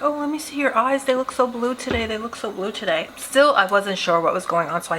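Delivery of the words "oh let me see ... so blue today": higher, sugary mock of the coworker; a hint of a too-sweet coworker; sweet fake voice. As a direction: imitate her creepy sweetness, lightly. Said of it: "she'd be like".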